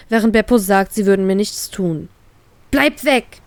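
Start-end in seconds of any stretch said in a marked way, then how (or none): 2.7-3.4 higher, sharp warning; pushing her friends away, a touch of venom; snapping. Acted. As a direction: snap at them to keep away. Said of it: "gifte ich sie an".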